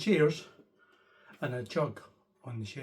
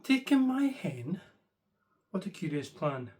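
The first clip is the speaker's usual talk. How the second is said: puzzled question. Acted. Old lady puzzled by the wise man's odd advice. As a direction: ask it in disbelief.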